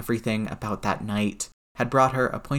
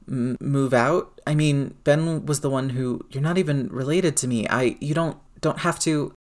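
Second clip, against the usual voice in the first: shaky voice; 4 semitones higher than usual. Acted. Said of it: "still shaking".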